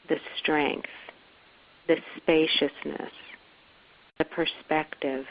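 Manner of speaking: measured, repeating phrases with pauses between; guided meditation. Acted. Guide evoking a safe home for listeners, guided meditation. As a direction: list each quality as a point to rest on.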